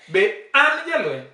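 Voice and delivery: AN held high, then a steep fall on JALWENY. Shown as a demonstration. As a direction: push AN right up in pitch. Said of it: "The A has to be higher".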